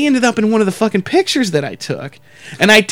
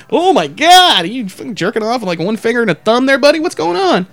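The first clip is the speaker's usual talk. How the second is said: mocking; 4 semitones higher than usual. Mock mocking onlooker.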